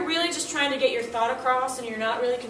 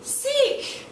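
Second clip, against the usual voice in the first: one-word student answer; 14 semitones higher than usual. Retold or imitated. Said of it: "you're like".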